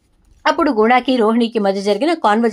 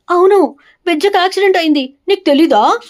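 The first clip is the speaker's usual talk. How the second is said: angry outburst; 7 semitones higher, 4 dB louder than usual. A narrator's reading. Angry husband confronts wife before slap.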